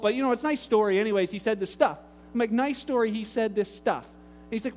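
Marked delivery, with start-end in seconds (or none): 0.0-2.0 quick, casual brush-off; imitated offhand dismissal. Caller explains Jesus to pastor, quick and offhand. 2.5-4.1 measured, doubting repeat; sceptical echo. Retold or imitated. Pastor repeats caller's answer to him, sceptical echo.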